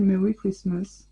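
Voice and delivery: Merry Christmas in a slow, careful English accent; a proud little English accent, slowed down; French speaker trying an English accent. Shown as a demonstration. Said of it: "Avec mon accent English".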